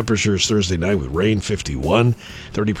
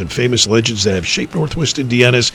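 horror trailer voice; 2 semitones lower than usual. Shown as a demonstration. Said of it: "Take two".

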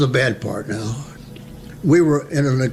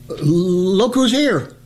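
stuttering sentry; 4 semitones higher, much slower than usual. Retold or imitated. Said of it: "I stuttered a little bit".

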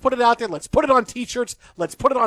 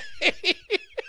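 high-pitched giggle burst; high squealing laugh; 6 dB quieter than usual. Real, not acted. Laughing at own joke.

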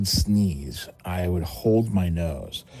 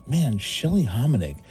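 higher, slowing right down in disbelief; shocked thought; 6 semitones higher, slower than usual. Retold or imitated. Freshman thinking about the pretty girl, mock shock. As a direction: drag out the horror of it.

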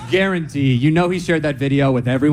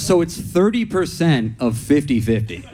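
laughing disbelief; slower than usual. Retold or imitated. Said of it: "And he goes".

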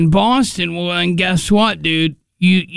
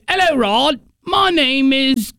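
mock British reporter; 5 semitones higher than usual. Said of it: "They don't say".

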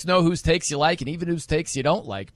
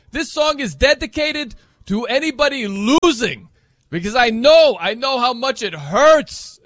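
imitated showman's announcement, high and impassioned; mock song dedication; 7 semitones higher, 5 dB louder than usual. Host imitating a guy dedicating a song, impassioned. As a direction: dedicate it loudly, building to a drawn-out finish. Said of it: "And he's like".

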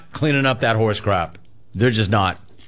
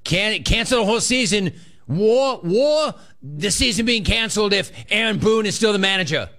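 mock New York accent, pitched higher; imitating New York accent; 7 semitones higher than usual. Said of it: "You could hear it in his voice".

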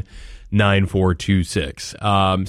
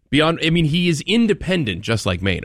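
sarcastic, high and overdone; sarcastic, mock amazement; 6 semitones higher than usual. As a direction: fake astonishment, pitched high. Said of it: "My sarcasm is deep".

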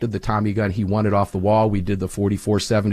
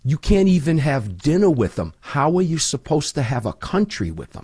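put-on higher Boston accent; imitated Boston accent, pitched up; 5 semitones higher than usual. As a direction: do your best Boston guy. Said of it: "I'll try to do his Boston accent".

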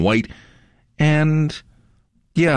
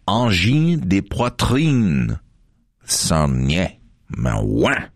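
French accent; much slower than usual. Shown as a demonstration. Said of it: "You have to say it in a French accent".

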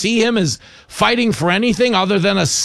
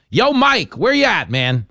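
radio host's welcome call; 3 semitones higher than usual. Real, not acted. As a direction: hail him on the line. Host calling caller onto line.

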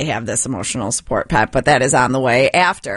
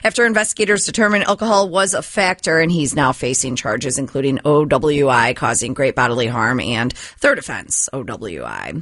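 brisk newscaster delivery; news read. Acted. Newsreader giving listeners the local stories, news read. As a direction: read it like a radio news bulletin.

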